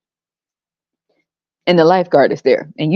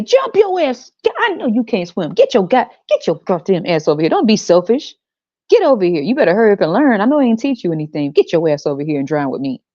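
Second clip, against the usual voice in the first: drowning parent yelling; 2 semitones higher than usual. Pretend. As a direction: bark orders at your own child. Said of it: "And you say".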